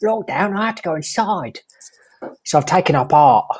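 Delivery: a light put-on Cockney accent; lightly voiced Cockney bloke; David Cockney. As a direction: play a cheeky Cockney geezer, lightly. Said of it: "It's David Cockney".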